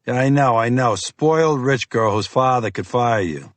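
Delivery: lightly voiced gruff FBI agent; pushy, impatient Boston cop. Fiore scoffs.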